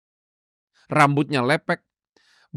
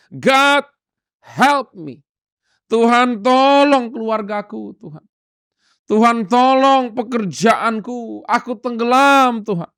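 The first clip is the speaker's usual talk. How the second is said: louder, higher pleading prayer cry; desperate cry for help; 5 semitones higher, 4 dB louder, slower than usual. Acted. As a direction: cry out to God like you're drowning. Preacher acts desperate prayer. (seruan doa yang putus asa, lebih keras)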